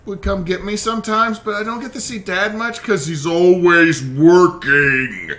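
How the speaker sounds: put-on high, wistful child; a lonely little boy longing; sad child voice. Ghost child sad about dad.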